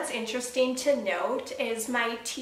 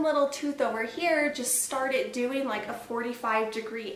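finger at lips. Real, not acted. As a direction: hand near mouth. Seen 0: Finger touches lips pointing at tooth; moves away by 1.9.

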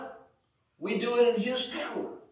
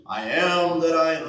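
low, booming voice from the sky; God voice; 3 semitones lower, 4 dB louder than usual. Shown as a demonstration. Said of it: "That's my God, my God voice".

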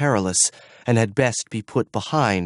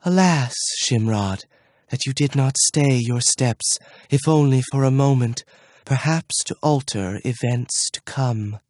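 soft echoing dream voice; 2 semitones higher than usual. Acted. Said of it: "The soft voice came after him".

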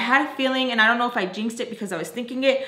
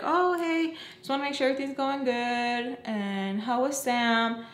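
mock teacher check-in; 3 semitones higher, 3 dB quieter than usual. Teachers calling the cleaner to check on her, mock high voice.

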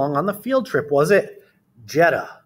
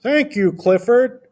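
Farmer Brown; 6 semitones higher, 4 dB louder, slower than usual. Acted. Farmer Brown thanks Clifford.

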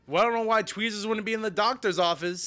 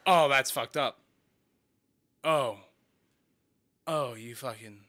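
shaken; 3 semitones lower, 4 dB louder than usual. Real, not acted. Reaction after jump scare.

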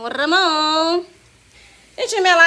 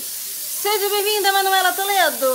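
slow high welcome; 6 semitones higher than usual. Shown as a demonstration. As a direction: draw out the welcome sweetly. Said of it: "deixa eu falar de novo".

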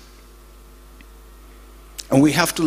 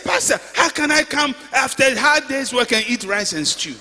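mock complaint; 10 semitones higher than usual. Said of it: "He said".

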